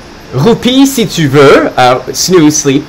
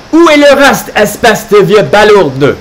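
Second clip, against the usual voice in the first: grumbling insult; 4 semitones higher than usual. Acted. Carlo complaining to Santa about gifts.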